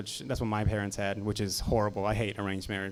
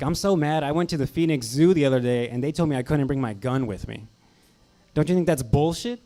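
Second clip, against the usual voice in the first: mock angry guy; 3 semitones higher, 5 dB louder than usual. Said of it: "immediately pissed off".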